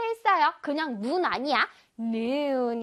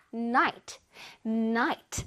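"나이트" as one short, low, fully stressed English "night"; short, solid stress; 3 semitones lower, slower than usual. Shown as a demonstration. Teacher models night for pupils, short solid stress. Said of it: "짧고 굵게 전체에 강세를 둡니다".

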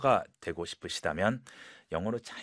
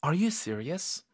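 worried, slow rising question; a bit worried; 3 semitones higher, much slower than usual. Shown as a demonstration. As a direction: ask it with mild concern. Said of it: "약간 이게 걱정되는 톤으로". (약간 걱정되는 말투)

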